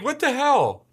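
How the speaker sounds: high, loud "what the hell" outburst; retold disbelief. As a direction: blurt it out, retelling your own bafflement. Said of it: "I'm like".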